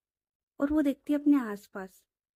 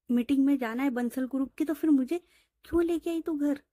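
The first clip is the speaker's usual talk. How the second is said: angry scolding; 3 semitones higher than usual. Acted. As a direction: scold her like a strict boss. Boss scolds friend in quarrel. (गुस्से में डांटती boss)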